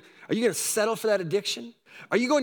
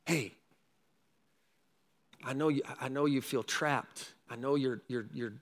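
softer and lower, tender; gentle comfort; 7 semitones lower, 7 dB quieter than usual. Shown as a demonstration. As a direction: quietly reassure someone who feels trapped. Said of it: "This is what you can tell them".

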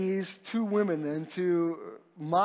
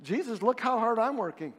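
whiny complaint; 5 semitones higher, 8 dB louder than usual. Retold or imitated. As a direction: pile on the self-pity until the last words are stretched and wailed. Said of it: "She's trying to score points".

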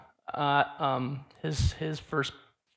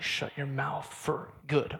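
stern low threat; 5 dB quieter than usual. Retold or imitated.

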